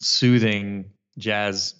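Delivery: slow, smooth late-night radio host; sexy radio DJ voice. Pretend. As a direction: purr it like a jazz station DJ. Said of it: "give me your sexiest D J voice".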